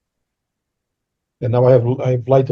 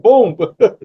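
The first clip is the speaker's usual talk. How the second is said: gloating; 8 semitones higher, 4 dB louder than usual. Real, not acted. Gloating after a trick question.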